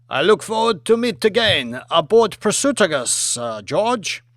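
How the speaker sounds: put-on polite premier in a Chinese accent; a formal Chinese dignitary thanking his host. Premier speaks.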